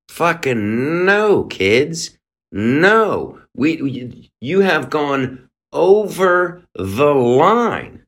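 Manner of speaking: slow, insistent scolding; firm angry rebuke. Real, not acted. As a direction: lay down the line, slow and stern. Angry rant at protesting kids.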